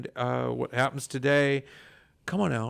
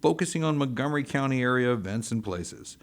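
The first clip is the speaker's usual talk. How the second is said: radio ad read. Acted. Recorded radio promo.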